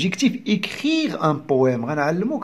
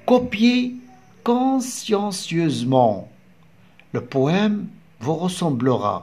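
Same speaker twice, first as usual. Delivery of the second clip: slow, deliberate poem recitation with pauses; poem reading; much slower than usual. Acted. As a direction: read the poem aloud slowly, phrase by phrase. Reads the poem aloud.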